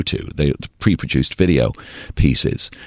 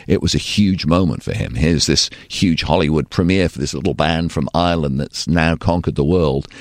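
ordinary talk, nothing marked

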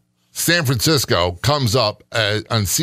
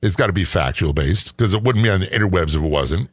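sarcastic. Acted. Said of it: "And I'm being sarcastic".

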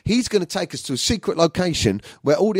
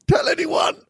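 high, drawn-out yell; hammed-up slow squeal; mock-secret shout; 5 dB louder, slower than usual. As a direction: loudly beg them to keep it secret. Mock-secret aside shouted at listeners.

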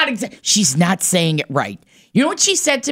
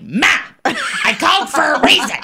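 high-pitched exasperated complaint; mock bossy daughter; 8 semitones higher than usual. Imitating Morgan phoning her mom, high and bossy. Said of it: "does the same thing to your daughter".

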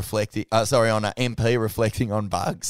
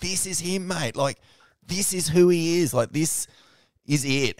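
imitating crying; 8 semitones higher than usual. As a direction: mimic him choked up over the photo. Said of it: "crying his eyes out".

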